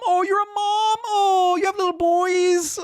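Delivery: very high mocking falsetto; hammed-up parody of the entitled mom. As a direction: sneer at her by parroting in a whiny high voice. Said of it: "just because you're a mom".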